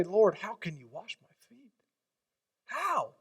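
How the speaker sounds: rising, astonished disbelief; Peter amazed. Acted. Peter protesting to Jesus, high amazed question. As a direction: ask it like you can't believe it.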